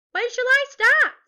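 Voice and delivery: high, loud, keen troll; eager question. A narrator's reading. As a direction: burst out keen to begin. Troll eagerly accepts cooking job.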